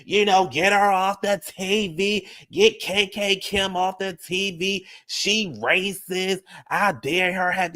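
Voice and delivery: mock the viewers crying racism, drawn out and high; a parody of an indignant viewer demanding she be taken off TV; mock outraged viewer. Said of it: "Y'all would've been up in arms".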